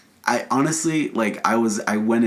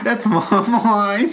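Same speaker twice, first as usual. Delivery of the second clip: high, loud cockney caricature; mock British accent; 12 semitones higher, 4 dB louder, much slower than usual. Co-host echoing the actor joke, exaggerated British accent. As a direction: squeal it in a silly English accent. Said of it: "I don't know how his accent is".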